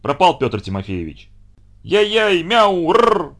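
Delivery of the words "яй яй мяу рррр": high, loud yowling cat song; threatening cat yowl. Acted. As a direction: yowl menacingly at the dogs. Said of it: "угрожающе запел он". (кот угрожающе воет, отбиваясь от собак)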